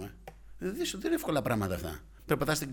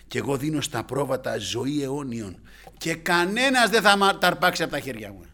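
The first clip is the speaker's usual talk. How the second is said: full-force preaching; 3 semitones higher, 10 dB louder than usual. Acted. Preacher declaring Christ's promise to the sheep, full-force preaching.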